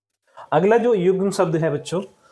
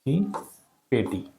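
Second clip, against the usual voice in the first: slow dictation. Shown as a demonstration. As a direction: dictate for writing. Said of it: "तो इसका हो जाएगा श्रृंगार की पेटी". (धीरे-धीरे लिखवाना)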